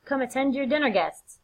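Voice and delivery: loud, high, pushy wife; chivvying Lady Macbeth. Acted. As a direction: cajole your husband back to his guests, starting high and easing down. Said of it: "tells her husband".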